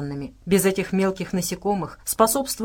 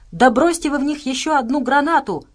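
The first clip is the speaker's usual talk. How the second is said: high-pitched, desperate plea; desperate cry; 6 semitones higher, 4 dB louder than usual. A narrator's reading. Nastya begs the men for another grenade, crying out desperately. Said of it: "в отчаянии крикнула Настя".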